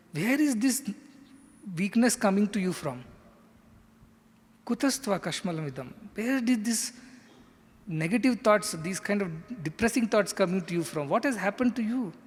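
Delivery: acted stern rebuke, emphatic questions; attention-getting scolding. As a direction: scold someone out of gloom, pitch jumping on the questions. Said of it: "to get Arjuna's attention".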